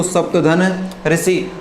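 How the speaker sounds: सप्तधन ऋषि drawn out very slowly in parts; slow split-up word. Shown as a demonstration. Teacher giving the sandhi split to students, very slowly. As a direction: spell out सप्तधन ऋषि at a crawl. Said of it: "संधि विच्छेद क्या कर दिया".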